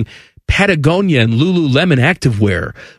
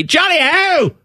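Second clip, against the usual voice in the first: high, put-on jolly English call; mock English cheer; 13 semitones higher than usual. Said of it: "and say".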